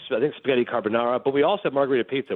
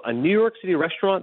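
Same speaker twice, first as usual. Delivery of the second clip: higher-pitched retold disbelief; incredulous question; 6 semitones higher than usual. Diner challenging waiter on early closing, incredulous. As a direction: question it as if it can't be true.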